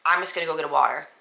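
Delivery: deadpan repeat of the water line; monotone. Retold or imitated. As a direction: drone it out without feeling. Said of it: "the most monotone voice".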